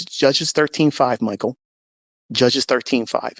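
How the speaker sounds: slow, deliberate voice from above; voice of God. Retold or imitated. God telling Michael a verse to read, slow voice of God. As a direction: give the verse slowly and firmly. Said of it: "And that same voice says".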